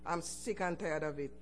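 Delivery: low, quiet, worn-out refusal; weary and fed up. Retold or imitated. Turning down her friend's job tip, quietly fed up. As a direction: sigh the words out like you've given up. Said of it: "I said".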